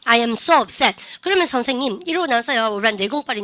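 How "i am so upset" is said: model reading. Shown as a demonstration. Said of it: "시작".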